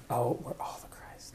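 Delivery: laughing realization. Retold or imitated.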